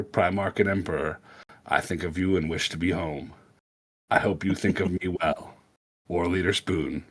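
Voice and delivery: put-on light Southern accent letter reading. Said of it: "read that right now, out loud, in a Southern accent".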